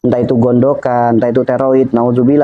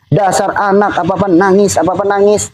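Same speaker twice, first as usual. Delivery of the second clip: scolding mother; 6 semitones higher than usual. Retold or imitated. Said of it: "Mungkin ada ucapan seorang ibunya".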